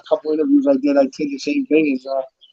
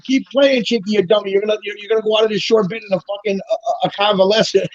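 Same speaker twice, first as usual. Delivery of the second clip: retold scream; 4 semitones higher than usual. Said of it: "another guy screaming".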